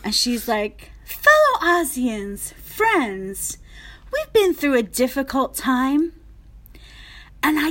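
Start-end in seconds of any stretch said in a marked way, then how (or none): 1.0-6.1 slow, drawn-out stage address; Kristen's off-kilter speech. Retold or imitated. Imitating castmate struggling through her speech onstage, off-kilter stage address. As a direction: stretch the grand opening, faltering into pauses. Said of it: "Kristen turns to me, looks at me".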